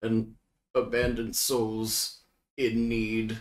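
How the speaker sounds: slow, measured plea; solemn message-sender. Acted. Player sending a magical message for lost souls, solemn and slow. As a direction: send the words out slowly and solemnly.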